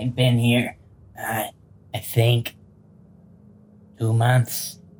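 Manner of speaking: goblin-like creature voice. A storyteller voices a captive goblin answering a question, goblin voice. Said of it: "and then the goblin says".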